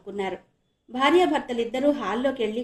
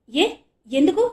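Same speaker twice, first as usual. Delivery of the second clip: worried; 5 semitones higher, 8 dB louder than usual. Acted. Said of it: "ఆందోళనగా అడిగింది".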